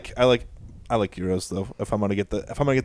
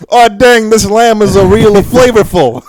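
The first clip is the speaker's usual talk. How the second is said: loud, high hammed-up Greek accent; exaggerated Greek accent, slow and loud; 9 semitones higher, 10 dB louder, slower than usual. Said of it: "But in your best Greek accent".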